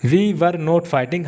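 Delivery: each word slowly laid out; slow, spelled-out sentence. Shown as a demonstration. Teacher slowly reading out the negative sentence. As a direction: say it word by word for the class. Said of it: "अगर मैं ये not को छिपा दूँ".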